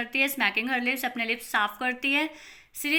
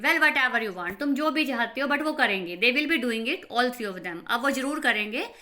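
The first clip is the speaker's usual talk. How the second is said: louder, brushing it aside; an impatient mother overriding the other woman, louder; 4 dB louder than usual. Acted. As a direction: wave the objection away impatiently.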